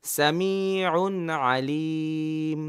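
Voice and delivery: সামিউন আলিম read very slowly again; slow drill. Shown as a demonstration. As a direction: draw it out for the learners to repeat. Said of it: "আপনাকে তো পড়তে হবে".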